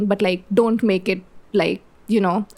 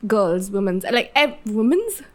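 higher-pitched, words dissolving into real laughter; flustered laughing; 4 semitones higher than usual. Real, not acted. Host losing her thread mid-episode, flustered laughing. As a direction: laugh helplessly while admitting you've lost the thread. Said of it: "all over the place right now".

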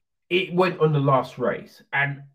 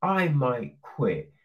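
mock whining quitter; 4 semitones lower, slower than usual. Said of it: "you are going".

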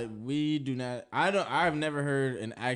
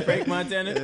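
laughing; 4 semitones higher than usual. Real, not acted. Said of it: "It's funny".

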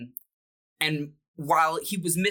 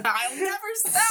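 teasing. Acted. Tickling co-host teasingly.

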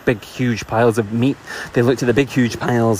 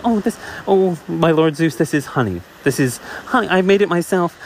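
timid bee; 5 semitones higher than usual. Acted. Bee Melissa answers Zeus.

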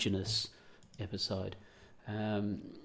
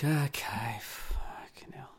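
whispered grumble; 4 semitones higher, much slower than usual. Retold or imitated. Husband grumbling under his breath at wife, whispered. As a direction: whisper it so the wife won't hear. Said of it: "And you'd be like".

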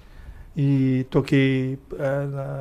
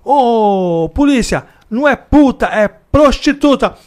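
higher, louder correcting officer; lieutenant scolding the cop on the radio; stern lieutenant; 7 semitones higher, 7 dB louder, slower than usual. Retold or imitated. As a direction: correct him firmly. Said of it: "Aí o tenente falou".

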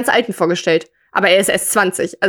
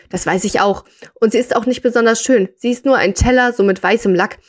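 measured read-aloud storytelling voice; story narration. A narrator's reading. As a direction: read the short story out to listeners.

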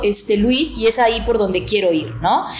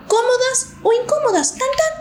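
playful sing-song; 13 semitones higher than usual. Real, not acted. Playful wrap-up flourish.

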